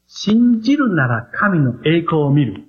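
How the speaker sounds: 信じるなら神の栄光を見る said slowly, each phrase weighted; slow emphasis. Shown as a demonstration. Preacher stresses the key phrase to the congregation, slowly. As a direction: lay 信じるなら神の栄光を見る down slowly and firmly. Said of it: "これが神様の順序だということを覚えてください".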